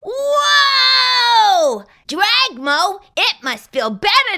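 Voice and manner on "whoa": loud, higher astonished cry; amazed whoa. Acted. Character watching the dragon breathe fire, amazed shout. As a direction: marvel at the fire.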